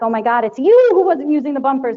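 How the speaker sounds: accusing. Pretend. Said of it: "I could have been like".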